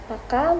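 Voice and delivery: "paka" with a short, quick K. Shown as a demonstration. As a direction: clip the K in "paka". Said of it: "with a longer K".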